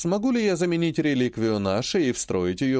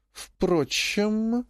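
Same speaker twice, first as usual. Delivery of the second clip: high, drawn-out musing; a sly idea dawning; predatory thought; 9 semitones higher than usual. A narrator's reading. Grandmother spots a scheme, slyly musing. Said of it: "она плотоядно улыбнулась".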